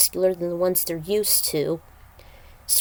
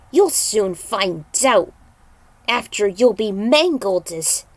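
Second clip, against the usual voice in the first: slow menacing threat; 4 dB louder than usual. Acted. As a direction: threaten slowly. Demon threatens.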